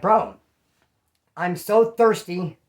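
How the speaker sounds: milk the thirst, slow and pleading; exaggerated thirsty plea. To his cousin, begging for something to drink, slow loud plea.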